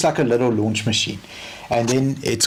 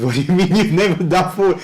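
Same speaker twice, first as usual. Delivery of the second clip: laughing disbelief; 6 semitones higher, 4 dB louder than usual. Real, not acted. Incredulous retort to mechanic.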